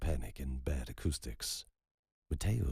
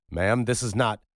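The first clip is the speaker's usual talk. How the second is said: higher and much louder, cutting in; urgent interruption; 8 semitones higher, 11 dB louder than usual. Acted. Roman cuts off the grieving woman, loud and urgent. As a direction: stop her before she goes on.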